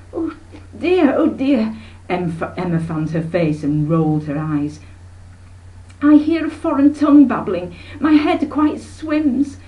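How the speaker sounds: a fainting lady overcome; dramatic dismay. Acted. Aunt Emma fans herself at the sailors' talk, swooning.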